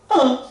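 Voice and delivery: Un said with a big grin showing back teeth; sorrisão largo no Un; wide smile un. Shown as a demonstration. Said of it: "Ó aquele sorrisão?".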